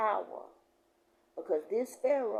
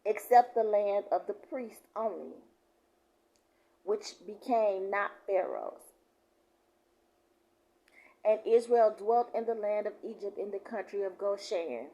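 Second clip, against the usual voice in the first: raised, emphatic preacher's reading; scripture reading; 2 semitones higher, 5 dB louder than usual. Real, not acted. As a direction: declare the verse to the congregation. Reads scripture aloud.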